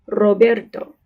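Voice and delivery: Roberto with the first r rolled; trilled R. Shown as a demonstration. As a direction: roll the opening r of Roberto. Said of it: "initial R ... with a trill".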